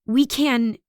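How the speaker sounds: unfinished, trailing thought. A narrator's reading. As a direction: start to insist, then trail off. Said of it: "my voice trails off".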